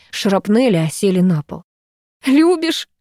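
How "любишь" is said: high, incredulous exclamation; mock-astonished cry; exclaiming in disbelief. A narrator's reading. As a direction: toss the word back in shock. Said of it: "воскликнула я".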